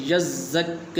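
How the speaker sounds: یزک with the doubled ز held; correct pronunciation. Shown as a demonstration. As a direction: hold the shadda in یزک. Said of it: "تو اس لفظ کو اس طرح پڑھیں گے".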